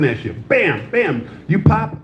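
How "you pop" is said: teasing the crowd. Real, not acted. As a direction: needle her with a grin. Teasing audience woman.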